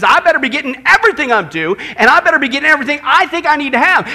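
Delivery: loud, insistent demand; mock self-important demanding; entitled attitude. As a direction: insist on it forcefully, as if owed. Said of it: "this misplaced attitude says".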